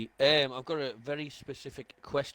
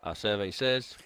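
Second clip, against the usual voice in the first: game show host; 2 semitones lower, 5 dB louder than usual. Retold or imitated. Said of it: "Call me Les Dennis".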